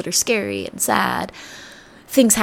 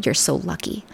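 softer, a little lower, rising at the end; disliked phrase; 3 semitones lower, 4 dB quieter than usual. Retold or imitated. Repeating the phrase she hates, quietly with a hint of distaste. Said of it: "I hate that phrase".

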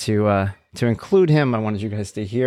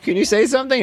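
much higher, imitated coaxing to a child; retold coaxing. Dad retelling how he coaxes his son, high mock sing-song. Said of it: "I'm like".

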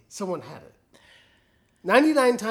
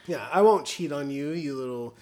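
sultry flirty voice; 6 semitones lower than usual. Acted. Husky flirty voice.

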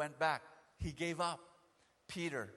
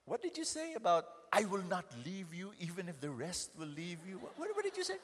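scolding demand; 4 semitones higher than usual. Acted. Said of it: "he was expecting Jesus to".

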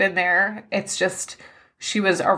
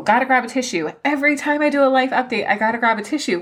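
higher, tearful laughing complaint; teary self-mockery; 6 semitones higher, faster than usual. Real, not acted. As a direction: laugh at yourself while reaching for a tissue. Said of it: "bawling out of control".

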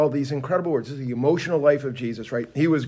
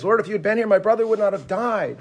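mildly heated, higher-pitched complaint; fired-up Martha; 6 semitones higher than usual. Retold or imitated. Martha confronts Jesus over her brother's death, fired up. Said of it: "Martha's fired up the way Martha's fired up".

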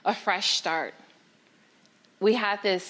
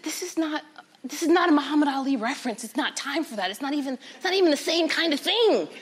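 frustrated protest; 5 semitones higher than usual. Acted. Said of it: "I was frustrated".

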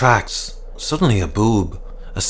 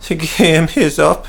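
put-on higher, slow tearful old man; sobbing; 6 semitones higher than usual. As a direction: choke out the words in despair. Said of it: "he sobbed".

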